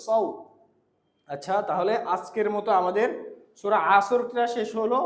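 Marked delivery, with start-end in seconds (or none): 0.1-0.2 সৌ with a heavy, full 's'; careful saad. Shown as a demonstration. Teacher asking for a neat sound, articulated. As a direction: round out সৌ from a raised back tongue. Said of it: "সুন্দর করে".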